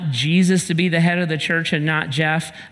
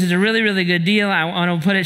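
eager wife; much faster than usual. Retold or imitated. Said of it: "she goes".

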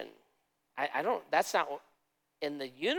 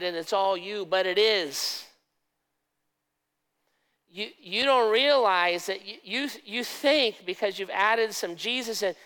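urgent pleading God; 4 semitones higher than usual. Acted. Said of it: "He's like".

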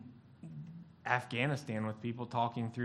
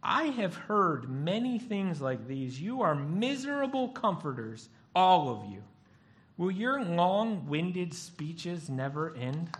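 weary Job; 3 semitones higher, slower than usual. Retold or imitated. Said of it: "Job said".

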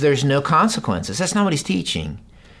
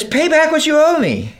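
a much higher, louder, harsh demanding voice; angry demand; 14 semitones higher, 4 dB louder than usual. Acted. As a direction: seize him by the throat and demand the money. Servant choking his fellow servant.

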